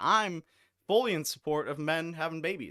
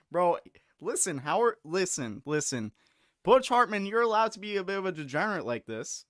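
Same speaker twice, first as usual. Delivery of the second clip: loud, higher call to Butch Hartman; 3 semitones higher, 4 dB louder than usual. Real, not acted. Streamer calling out Butch Hartman, loud and high. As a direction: shout it out to him. Calls out to creator.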